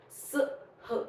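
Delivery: "सह" said as two separate sounds, S then H; separate letter sounds. Shown as a demonstration. Teacher shows parents S and H apart, "सह" sounded out separately. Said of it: "these two have the different sounds".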